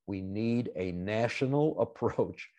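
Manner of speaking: laughing nervously mid-phrase; a short uneasy laugh through the words. Real, not acted. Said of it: "you see my nervous laugh here".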